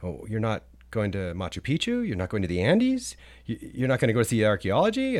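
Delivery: mildly incredulous questions, each rising at the end. Retold or imitated. Peruvian local to a visitor skipping Machu Picchu, incredulous. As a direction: imitate a disbelieving local, pitch climbing with each question. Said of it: "they were kind of incredulous".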